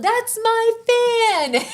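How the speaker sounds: high, slow cry through laughter; laughing mock squabble. Woman claiming a fan, high and slow through laughter. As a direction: squeal it while laughing. Women fighting over fans.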